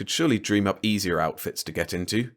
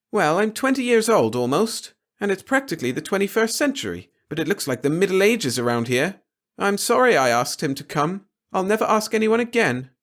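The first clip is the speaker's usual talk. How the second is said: high, louder, mock-tragic young woman; dramatic daughter; 11 semitones higher, 4 dB louder than usual. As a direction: ham up the hurt feelings. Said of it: "Now don't start getting dramatic".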